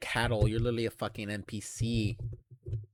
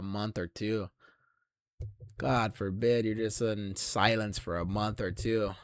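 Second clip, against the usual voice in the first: softer, self-pitying whimper; softer mock self-pity; mock whiny loner; 3 semitones lower, 5 dB quieter than usual. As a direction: whine it like a sad loner. Mimics the viewer's whining.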